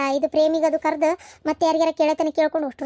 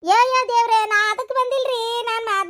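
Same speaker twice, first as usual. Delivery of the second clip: panicked denial; 7 semitones higher than usual. Acted. Wife crying out to the angry husband that she came for nothing. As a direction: plead innocence in a frightened rush.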